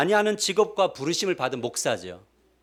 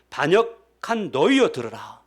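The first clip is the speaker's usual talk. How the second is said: slow stern rebuke; 3 dB louder, slower than usual. Retold or imitated. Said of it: "성도들에게 뭐라고 하냐면".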